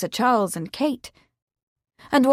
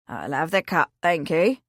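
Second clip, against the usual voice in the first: put-on a lightly lowered old countryman, polite; old farmhand, lower; 4 semitones lower than usual. Old Willie declining Mrs Pratt's offer, low and polite. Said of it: "the old man said".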